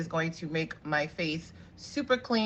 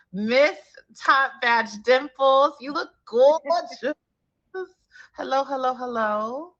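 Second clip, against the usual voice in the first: high, slow, louder excited welcome; 8 semitones higher, 6 dB louder, slower than usual. Real, not acted. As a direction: greet her like a big announcement. Host welcomes next guest.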